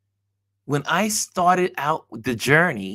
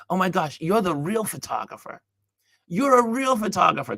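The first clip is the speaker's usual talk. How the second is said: higher, mildly amazed recognition; retold amazement; 5 semitones higher than usual. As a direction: imitate someone delightedly recognizing a photographer. Retells woman's amazed recognition.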